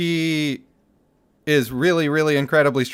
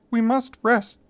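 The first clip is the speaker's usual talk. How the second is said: higher, lisping creature voice; lisping Reza voice; 7 semitones higher than usual. Acted. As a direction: lisp it up high like a forest spirit. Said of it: "I need another voice".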